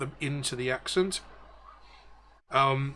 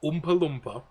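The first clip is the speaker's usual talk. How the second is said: tag Newcastle accent. Shown as a demonstration. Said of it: "how to do a Newcastle accent".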